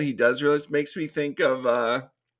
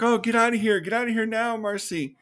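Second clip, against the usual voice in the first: higher-pitched mock urgency; lightly acted panicky command; urgent retold order; 5 semitones higher than usual. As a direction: imitate someone urgently shooing a friend away.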